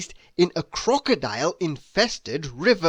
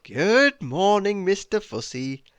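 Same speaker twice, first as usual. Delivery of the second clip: calm greeting. Acted. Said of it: "said Mister Calm calmly".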